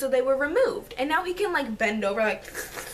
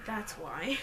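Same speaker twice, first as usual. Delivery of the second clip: breathy unvoiced giggle-whisper; whispered aside; 4 semitones lower, 9 dB quieter than usual. Real, not acted. Vlogger joking to viewers about soda, whispered. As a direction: whisper it as a private joke.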